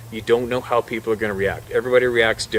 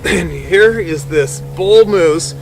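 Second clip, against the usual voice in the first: plain reading voice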